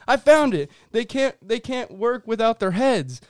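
high, loud excited alien line; hammed-up alien announcing a discovery. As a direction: play the dim alien who just found the trick. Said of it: "He goes".

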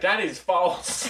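slow, mock African accent. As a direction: say it slowly in a light African accent. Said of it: "In his little African accent".

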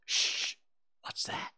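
hushed, unvoiced whisper. A narrator's reading. Tom pricks up his ears, whispering to Huck. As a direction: hush him, then whisper the question. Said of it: "he whispered".

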